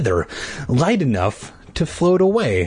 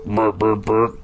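low burring bee; 3 semitones lower than usual. Acted. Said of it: "three different bees sounds".

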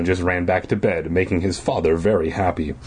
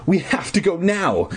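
put-on higher, urgent little-girl voice; shrill; 9 semitones higher than usual. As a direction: urge it shrilly. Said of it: "she repeated shrilly".

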